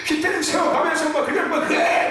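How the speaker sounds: high, strained mock rant; worked-up yelling. Preacher imitates his own red-faced ranting at the congregation, mock yelling. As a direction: imitate a vein-popping pulpit outburst. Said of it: "얼굴이 시뻘개지고".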